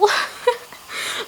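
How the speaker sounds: very high giggle; laughing. Real, not acted. Hearing how cute laptop sounds backwards, high giggling. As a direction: let out a high, airy giggle.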